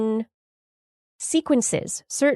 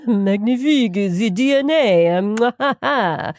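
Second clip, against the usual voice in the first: put-on slow, loud hammy French accent through a laugh; mock French chef praising DNA; bad French accent; 4 semitones higher, 4 dB louder than usual. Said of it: "my bad French accent".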